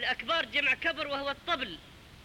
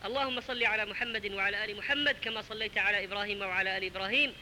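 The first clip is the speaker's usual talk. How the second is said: closing prayer; 3 semitones lower than usual. Acted. Preacher closing the sermon with a gentle prayer.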